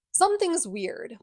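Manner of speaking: high, slow, drawn-out suspicion; suspicious. Retold or imitated. Friends telling Clary something's off, high and slow.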